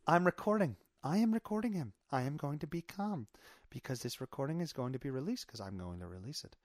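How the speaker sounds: calm, measured imitation of a woman. Voicing the woman secretly recording him, calm. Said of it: "listen to how calm she sounds".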